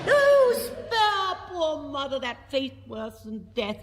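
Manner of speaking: high, slow wailing plea; a daughter begging for her mother in a high wail; wailing Pamina. Retold or imitated. Pamina wails to Sarastro to spare her mother, high and slow. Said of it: "wails Pamina".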